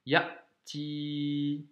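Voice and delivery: Ya'ti with a catch before ti; glottal stop. Shown as a demonstration. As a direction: stop the breath between ya and ti. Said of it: "on doit faire un petit blocage ici". (Ya'ti avec un petit blocage)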